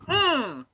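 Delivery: high-pitched sulky hum; mock pouting grunt through closed lips; imitated angry huff. Losing kid fuming at the movie, imitated huff. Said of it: "Aiden gets so pissed".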